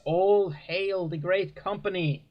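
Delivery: a lofty, drawn-out hail from the preacher; preacher's blessing. Acted. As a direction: proclaim it slowly as the preacher. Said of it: "and the preacher says".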